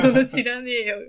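loud, curt Tokyo-style retort in a put-on voice; hammed-up tough-guy retort; harsh Tokyo retort. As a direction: bark it back like a rough Tokyo friend. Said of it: "すごい激しいツッコミが".

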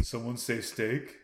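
slow, warped voice-changer tone; distorted modulator voice. Pretend. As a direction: drag it out through a modulator. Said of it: "We all just have voice modulators".

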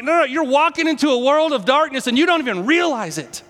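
Jesus pleading. Acted. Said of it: "And Jesus is like".

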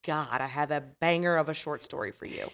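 slow excited gush. Retold or imitated. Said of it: "And she was like".

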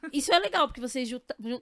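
cracking, failing voice. Real, not acted. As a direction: voice breaking up mid-sentence. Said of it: "minha voz tá falhando".

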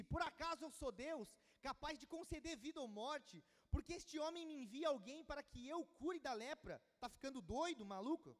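lightly acted royal outrage; indignant king. King of Israel protesting the letter asking him to cure leprosy, indignant.

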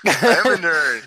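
high, slow, nasal-free nerd impression with laughs; laughing through a goofy high nerd voice. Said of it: "Michael Scott impersonating the nerd".

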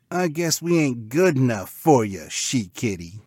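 hurt cartoon pig, falling away; dejected pig. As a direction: sulk like a rejected pig bro. Let-down pig with long frown.

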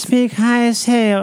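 slow, high posh English drawl; posh royal voice. Retold or imitated. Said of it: "they speak in the very".

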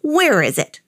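mild high-pitched holler; hollering old man. A narrator's reading. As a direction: demand it high, half hollering. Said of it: "hollered the old man".

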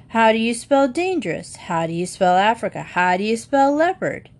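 a whiny mock of Jan's questions; mocking imitation. Brother mimicking Jan's spelling questions, mocking. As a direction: parrot Jan back at him. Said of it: "he mimicked Jan".

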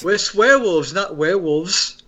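put-on New Zealand accent, line quote; deadpan New Zealand accent quote. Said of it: "trying to do the New Zealand accent".

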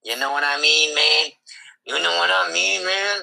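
half-sing it like a rapper; rapper impression. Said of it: "You sound like you're a rapper".

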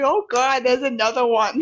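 put-on Brooklyn accent. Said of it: "walking up Brooklyn or something accent".

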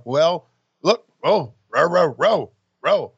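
voicing the Steiner promo. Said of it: "what do you think this promo with Mean Gene sounds like".

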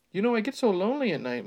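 high, quick French purr; lonely and coy, French accent. Acted. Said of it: "Monique said softly".

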